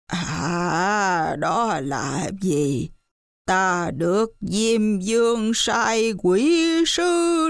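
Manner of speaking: slow accusing ghost voice; monkey as the master denouncing the widow; imitating the dead master. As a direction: drawl the accusation like a spirit. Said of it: "bắt chước tiếng viên ngoại nói".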